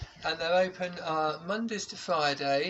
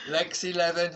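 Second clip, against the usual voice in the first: bingo caller; 2 semitones higher, 6 dB louder than usual. Shown as a demonstration. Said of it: "I used to do a bit of bingo calling".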